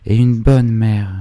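high, drawn-out lament; grieving cry. A narrator's reading. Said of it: "cria-t-elle". (plainte aiguë et traînante)

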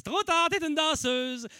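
high, slow, drawn-out retort; mock verdict. Comic retelling retort to audience member, high and drawn out. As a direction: draw it out high, like calling a game. Acted retort in crowd work anecdote.

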